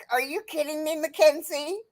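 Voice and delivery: high, laughing mock exasperation; laughing disbelief. Mother teasing her daughter about potatoes, laughing high. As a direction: tease her through laughter. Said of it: "I'm like".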